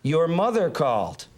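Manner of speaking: slow, stagey delivery; pretend line-reading. Assistant passing messages as fake dialogue, slow stagey reading. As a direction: recite it like a script line. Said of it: "pretend like I was running lines".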